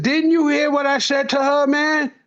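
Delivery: student dodges the question, speaker pushes back high and incredulous; retold exasperation. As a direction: play it like a teacher repeating himself.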